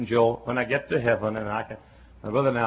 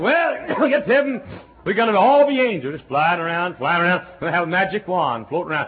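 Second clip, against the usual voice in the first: mocking naive believers; 4 semitones higher, 5 dB louder than usual. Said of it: "A lot of folks think".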